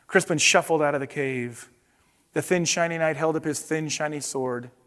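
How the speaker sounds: expressive picture-book narration; storybook read-aloud with paced reveals; reading to children. Acted. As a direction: tell it to the kids like a bedtime storybook.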